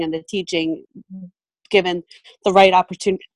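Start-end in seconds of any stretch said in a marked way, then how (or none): 2.4-3.2 hiccuping through the words; phrase broken by a hiccup. Real, not acted. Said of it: "I've got, like, the hiccups".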